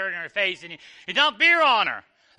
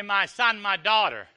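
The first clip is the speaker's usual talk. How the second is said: ordinary talk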